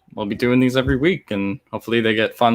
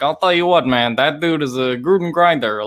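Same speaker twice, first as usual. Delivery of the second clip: a mild Gruden imitation, gravel-free and folksy; Jon Gruden impression; 4 semitones higher than usual. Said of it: "in a very, like, John Gruden".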